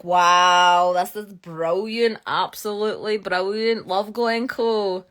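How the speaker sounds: big loud wow, then drawn-out delight; awed reenactment. Retold or imitated. Geologist reliving her discovery at Glencoe, awed. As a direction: savour each word in re-enacted wonder.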